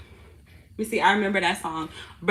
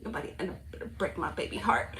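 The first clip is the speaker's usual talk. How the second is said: tender hush; 3 semitones lower, 8 dB quieter than usual. Real, not acted. Talking to her baby.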